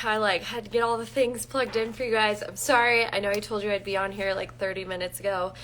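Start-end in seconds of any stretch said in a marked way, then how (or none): none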